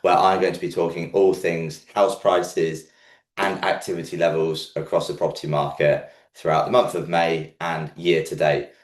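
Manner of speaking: croaky, under-the-weather voice; frog in throat. Real, not acted. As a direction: talk through a croaky throat. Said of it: "Apologies for my croaky voice".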